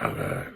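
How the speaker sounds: low growled villain "ah"; deep ominous villain noise; echoey villain voice. Retold or imitated. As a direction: mimic a modified bad-guy voice, deep and drawn. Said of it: "does this thing with his voice".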